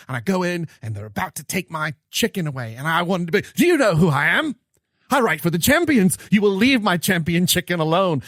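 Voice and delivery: mock-indignant Brit pulling rank over his dinner; British accent. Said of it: "it's sort of his British accent".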